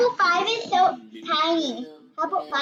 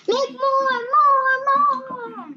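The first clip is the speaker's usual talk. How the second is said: excited; 10 semitones higher, 5 dB louder, much slower than usual. Real, not acted. Kid eagerly asking for more.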